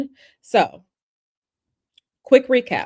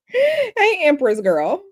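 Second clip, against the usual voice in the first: greeting in a put-on accent, "Hey" jumping much higher and louder; 7 semitones higher, 4 dB louder, slower than usual. Streamer greets a viewer in chat with a put-on accent. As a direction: hail a chatter in a mock accent, with a high, bright "Hey". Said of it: "saying that's a pretty good accent".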